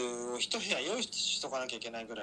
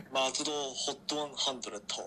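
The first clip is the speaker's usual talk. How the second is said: disguised deep voice. Retold or imitated. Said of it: "一生懸命声低くして".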